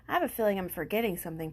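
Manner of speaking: quick, fretful little Piglet; hurried small-animal worry; lightly voiced Piglet. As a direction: rush it like a worried little pig. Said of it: "Piglet said".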